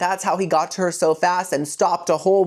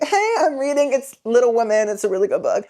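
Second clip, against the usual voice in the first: Bella voice; 4 semitones higher, faster than usual. Retold or imitated. Bella voiced with her book.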